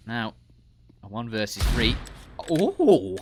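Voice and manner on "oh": sudden high excited Oh; excited shout. Acted. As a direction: yelp with glee like a fan. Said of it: "a noise a very excited Stockport man says".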